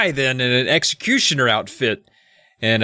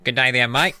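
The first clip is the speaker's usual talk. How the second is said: mock Australian. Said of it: "I could probably just do that".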